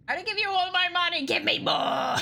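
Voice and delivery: flat monotone robot read. Shown as a demonstration. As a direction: drone it with no feeling. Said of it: "go full monotone".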